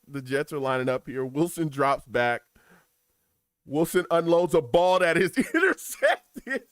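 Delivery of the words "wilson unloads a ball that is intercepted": loud call collapsing into laughter; losing it on the last word; breaking up laughing. Real, not acted. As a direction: start the big call strong, then crack up. Laughing at own team's interception.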